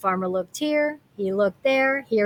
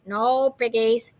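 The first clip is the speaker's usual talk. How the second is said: slow duck voice, a little odd in tone; quacking duck; slower than usual. Acted. The duck answering Gritch, slow quacking voice. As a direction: play the duck, slow and unbothered. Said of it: "quacked the duck".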